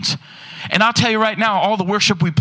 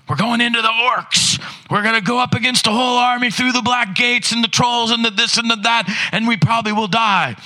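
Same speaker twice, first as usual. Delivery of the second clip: raised, higher film warrior voice; retold battle cry; 3 semitones higher than usual. Preacher retelling Lord of the Rings scene, mock battle cry. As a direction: act out a rousing charge into battle.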